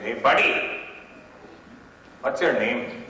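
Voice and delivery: lightly imitated Indian accent; a hint of an Indian passer-by's accent; Indian stranger. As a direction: accost someone in a mild Indian accent. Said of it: "Indian people give me a really hard time".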